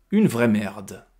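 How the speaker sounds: «Une vraie merde» martelé syllabe par syllabe, un peu plus fort; détache «Une vraie merde» syllabe par syllabe; chaque syllabe appuyée. Acted. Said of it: "en insistant sur chaque syllabe". (tranche «Une vraie merde» en appuyant chaque syllabe)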